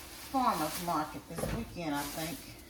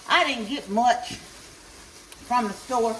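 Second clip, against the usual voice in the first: panting between words; out of breath; 5 semitones higher, slower than usual. Real, not acted. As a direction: talk while catching your breath. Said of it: "I'm out of breath".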